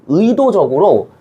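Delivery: 의도적으로 said slowly, each syllable pressed; slow stress on 의도적으로. Shown as a demonstration. Teacher to class, slowly pressing 의도적으로. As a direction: lean hard on 의도적으로, slow. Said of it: "작가가 의도적으로".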